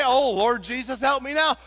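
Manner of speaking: shouted high and loud in panic; desperate shout. Shown as a demonstration. Preacher warning teens, mocking a late panicked prayer, shouted. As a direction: cry out for help too late. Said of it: "Don't say".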